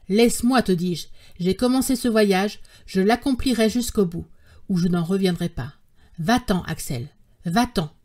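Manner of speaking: usual speaking voice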